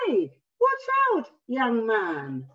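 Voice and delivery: mock startled warning. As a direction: call out in alarm. Reader warns, voiced.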